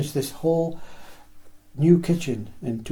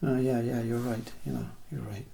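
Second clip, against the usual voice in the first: softer, resigned agreement that fades away; meek giving in; 4 semitones lower, 9 dB quieter than usual. Acted. Someone surrendering to their nagging mind, soft and resigned. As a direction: cave in quietly, almost under your breath.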